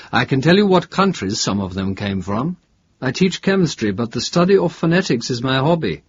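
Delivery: a touch of the preoccupied academic; lightly voiced professor. Professor questioned about fellow bus passengers, lightly voiced. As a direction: lightly play a professor explaining himself. Professor offers what he knows.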